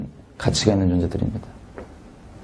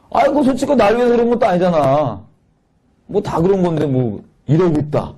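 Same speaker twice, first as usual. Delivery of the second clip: sneering retort; 5 semitones higher than usual. Retold or imitated. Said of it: "그 아빠한테 와서 비아냥".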